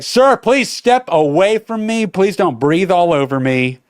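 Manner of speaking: imitating a firm official request, starting high; mock stern attendant. Gate attendant to panting traveler, acted stern rebuke. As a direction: order someone back, politely but firmly.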